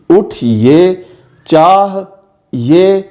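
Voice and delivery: "उठ ये" and "चाह ये" said as two parts each; split words. Shown as a demonstration. Teacher showing students how the words are read. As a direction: break each word in two. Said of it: "अलिफ नहीं है".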